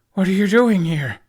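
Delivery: high, loud, stunned outburst; gasped in surprise. Acted. Hiccup stunned to see his friends arrive, shocked outburst. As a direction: blurt it out in shock. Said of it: "Hiccup gasped".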